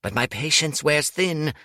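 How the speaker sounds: menacing, patient final warning; a character's last warning, lightly voiced; cold threat.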